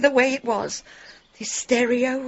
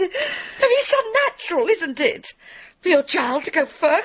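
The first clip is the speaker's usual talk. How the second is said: crying; 3 semitones higher than usual. Acted. Grieving mother breaks down.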